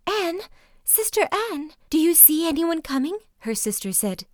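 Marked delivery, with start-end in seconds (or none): 0.1-3.2 much higher, louder desperate call; crying out. A narrator's reading. Wife crying out to her sister in the tower, high and loud. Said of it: "cried out to her sister".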